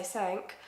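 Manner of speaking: "sank" for something, ending in a k; Essex pronunciation. Shown as a demonstration. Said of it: "an Essex accent".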